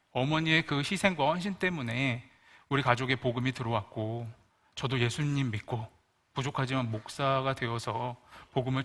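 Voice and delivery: a tender son comforting his mother; soothing son. Retold or imitated. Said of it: "어머니를 좀 달래주고 싶어서".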